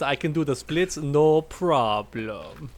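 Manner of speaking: put-on hammy European action-star accent, last words drawn out; Jean-Claude Van Damme. Friend demonstrates the impression he attempted, Jean-Claude Van Damme accent. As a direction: imitate a foreign action star's accent. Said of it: "I was trying to do his".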